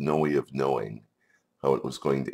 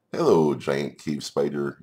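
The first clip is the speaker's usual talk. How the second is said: louder, lifted hello; cheery greeting; 5 dB louder than usual. Acted. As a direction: greet the creature brightly and cheerily. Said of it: "in a cheery voice".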